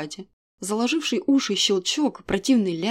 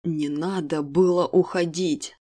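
restrained growl; 3 semitones lower, slower than usual. Acted. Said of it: "Едва сдерживаясь, прорычал мужчина".

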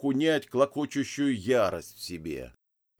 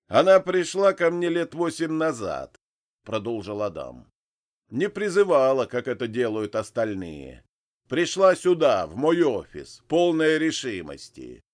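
voiced Adam; 3 semitones higher, 6 dB louder than usual.

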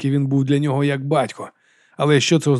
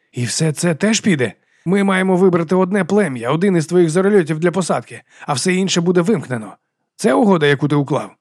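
indignant questioning; 5 semitones higher, 4 dB louder than usual. Acted. Donald confronts about the deal.

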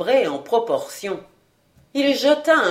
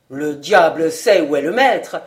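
gruff; 4 semitones lower, 6 dB louder than usual. A narrator's reading. Livaudrey answers Yomi about the master, gruff. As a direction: lower gruff reply, louder. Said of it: "d'un ton bourru".

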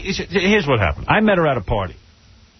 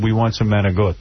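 put-on Italian accent; 6 semitones lower than usual. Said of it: "about as Italian as you get".

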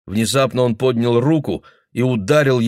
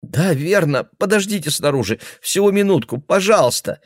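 put-on girl placating; 9 semitones higher than usual.

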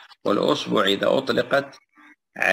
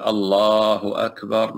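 slow, stretched takbir like the adhan; drawn-out call; 2 semitones higher, slower than usual. Shown as a demonstration. Teacher demonstrating the adhan to students, slow and drawn out. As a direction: draw out each word as a muezzin would. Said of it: "التمام يقول".

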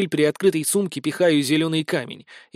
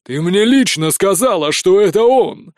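growling; 3 semitones higher, 6 dB louder than usual. A narrator's reading. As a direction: press the words out, louder at the end. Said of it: "рычит Узимир".

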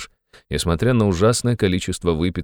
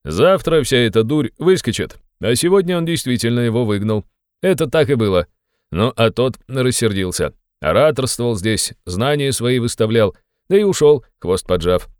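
raised, emphatic tipsy ranting; tipsy shouting; 5 semitones higher, 4 dB louder than usual. A narrator's reading. Tipsy friend scoffs at the departed suitor, shouting. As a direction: crow it higher, dragging some phrases. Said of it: "закричал хмельной Разумихин".

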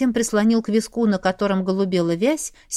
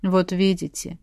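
a touch of mock sadness, lower; sadly; 3 semitones lower than usual. A narrator's reading. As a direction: play the wronged husband, mildly sad. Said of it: "грустно развёл руками муж".

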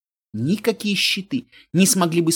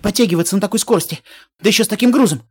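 strained complaining; 3 semitones higher, 3 dB louder, faster than usual. Acted. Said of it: "проворчал Грифон".

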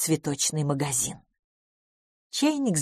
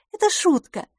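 very high, light and soothing; reassuring; 13 semitones higher than usual. A narrator's reading. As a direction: reassure in a lifted voice. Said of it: "успокоила мисс Лафос". (успокаивающе, высоким голосом)

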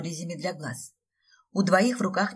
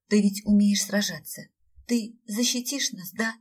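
whining; 4 semitones higher, 6 dB louder than usual. A narrator's reading. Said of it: "заныла девушка и снова всхлипнула".

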